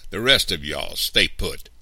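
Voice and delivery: loud, firm command; snapped order. A narrator's reading. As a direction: order them sharply to stay. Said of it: "Mister Anderson snapped".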